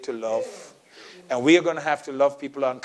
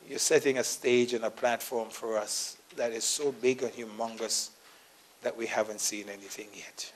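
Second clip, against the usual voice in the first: prayer. Acted. Leads closing prayer.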